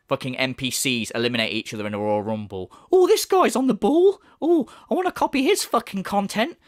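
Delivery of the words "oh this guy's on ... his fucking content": high mocking fan voice; mocking dopey voice. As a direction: ham up a gormless fan, pitched high. Mocking rival's imagined viewers.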